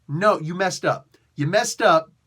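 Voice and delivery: mock-angry telling off; scolding shout. Scolding the snowman.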